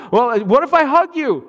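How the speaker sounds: put-on high, sweet toddler offer; little girl voice. Toddler sister offering a hug, high child voice. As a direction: coax him with a hug.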